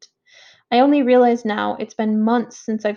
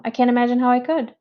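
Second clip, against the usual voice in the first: tearful, rushed; faster than usual. Acted. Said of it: "She's crying now".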